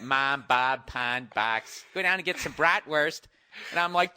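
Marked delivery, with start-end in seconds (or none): 0.0-1.8 mock Midwest vowels on mom, Bob, pond, box; Midwestern accent. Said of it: "they're all speaking like, you know, like Midwest". 1.9-3.2 mock Midwest twang, slightly raised; Midwestern accent. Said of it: "like Midwest".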